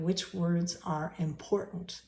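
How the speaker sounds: emphasis placed on "important"; stress on important. Shown as a demonstration. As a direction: lean on the word "important". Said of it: "I gave emphasis on the word important".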